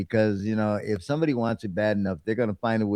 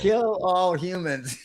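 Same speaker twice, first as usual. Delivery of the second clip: slow, high robot monotone; 6 semitones higher, slower than usual. Pretend. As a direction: drone it like a menacing robot. Robot slogan joke.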